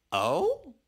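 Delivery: high, surprised little "Oh?". Real, not acted. Narrator reacting to news.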